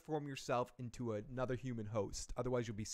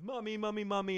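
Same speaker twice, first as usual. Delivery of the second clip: higher, lightly voiced frightened kid; scared kid; 7 semitones higher than usual. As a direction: call for mom like a scared boy. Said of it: "And the kid runs".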